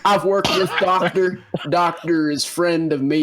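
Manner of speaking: lightly voiced Tarzan; a hint of mock broken-English Tarzan; Tarzan talk. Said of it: "Buck is actually Tarzan".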